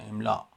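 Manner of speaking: املا closed with a glottal stop; Arabic pronunciation. Shown as a demonstration. Teacher quoting how Arabs say it, glottal-stop pronunciation. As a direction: say املا as emlâ', cut off by a hamza.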